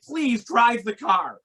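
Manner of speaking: slow, deliberate please. Retold or imitated. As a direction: spell it out calmly to a panicking man. Pleading with panicking driver.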